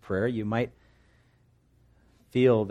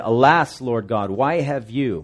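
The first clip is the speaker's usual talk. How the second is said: anguished lament; 3 semitones higher, 7 dB louder, slower than usual. Acted. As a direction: wail it out like a man in mourning. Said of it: "And Joshua said".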